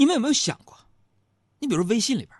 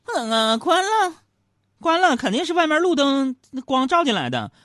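higher, louder wife's protest; mock wife voice, higher and louder; wife insisting; 10 semitones higher, 6 dB louder than usual. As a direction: insist like a wife sure she is right. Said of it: "杨嫂说".

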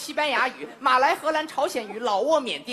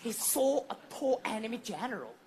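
English-language storytelling. Shown as a demonstration. Comic retelling the battle in English, dramatic storyteller. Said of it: "得用英语说呀".

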